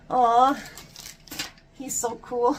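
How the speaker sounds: high, loud, melting aw over her son; gushing aw. Retold or imitated. Proud mom gushing about her son, high and loud. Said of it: "you're like".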